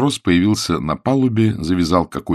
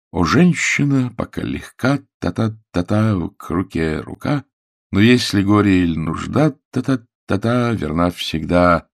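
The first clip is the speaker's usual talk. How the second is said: reciting half-remembered verse. A narrator's reading. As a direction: recite it line by line, drawing out the beats. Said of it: "ему вспомнилось несколько строк стихотворения".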